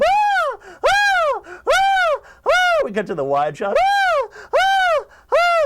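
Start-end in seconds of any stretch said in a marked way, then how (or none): 0.0-2.8 repeated piercing high screams; cartoon scream. SpongeBob will not stop screaming, cartoon scream. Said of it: "the screaming is still going on". 3.8-5.6 repeated piercing high screams; cartoon scream. SpongeBob will not stop screaming, cartoon scream. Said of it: "It's still going on".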